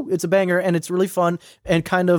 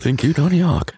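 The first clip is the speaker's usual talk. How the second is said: synthesized speech-computer voice; robot voice; 3 semitones lower than usual. Pretend. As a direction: speak like a text-to-speech machine. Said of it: "forgot you could do the robot voice".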